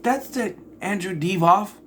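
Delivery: high, rising disbelief; incredulous question. Retold or imitated. Reviewer retells pausing the credits on the actor's name, incredulous. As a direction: question it as if you can't believe it.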